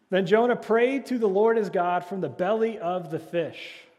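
fervent sermon reading of scripture; preached scripture reading. Acted. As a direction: proclaim the verse from the pulpit. Scripture read with force.

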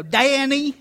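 a light Southern drawl on the name Danny; pastor's Southern accent. Retold or imitated. Imitating the old pastor's Southern accent calling his name. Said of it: "he had a very funny Southern accent".

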